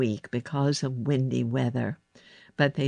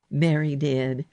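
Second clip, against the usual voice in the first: ordinary delivery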